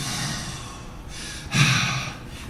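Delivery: long exhaled huff; heavy, seething sigh; furious huff. Retold or imitated. Comedian imitating his furious brother, long angry huff.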